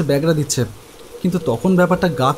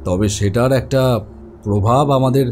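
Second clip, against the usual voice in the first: calm doctor; 5 semitones lower than usual. Acted. Doctor explains dreams calmly.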